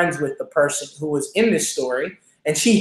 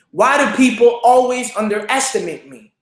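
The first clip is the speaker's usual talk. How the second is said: higher, more urgent plea to God; rising, imploring lament; raised anguished prayer; 5 semitones higher than usual. Retold or imitated. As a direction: push the repeat up into a cry. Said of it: "and I said".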